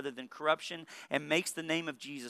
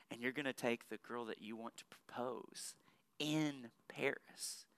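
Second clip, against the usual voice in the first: much softer, almost whispered, intimate; hushed, tender talk to younger self; 5 semitones lower, 7 dB quieter than usual. Pretend. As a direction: lean in and speak gently to your twelve-year-old self. Talking tenderly to his younger self.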